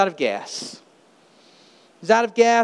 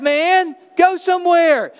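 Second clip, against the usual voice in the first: loud, high exasperated yelling; angry scolding; 8 semitones higher, 3 dB louder than usual. Pretend. Helper yelling at the man pushing his car, angry. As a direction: berate him like a fool for wasting help.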